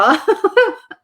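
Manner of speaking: high teary laugh; a helpless laugh on the edge of tears; tearful laugh. Real, not acted. Psychic recalling crying with clients, tearful laugh. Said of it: "we'll be crying together".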